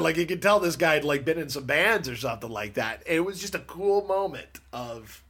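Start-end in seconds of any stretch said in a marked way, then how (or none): 1.2-5.2 muffled, underwater microphone sound. Real, not acted. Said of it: "It sounds like you're underwater now".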